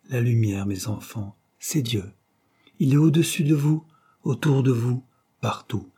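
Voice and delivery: voix plus haute de mourant, solennelle; mourant qui bénit. Acted. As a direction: dernier adieu d'un père à ses enfants. Mourant bénit ses enfants. (père mourant, voix haute et grave d'adieu)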